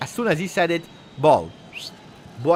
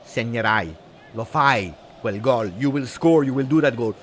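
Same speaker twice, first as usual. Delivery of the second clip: usual speaking voice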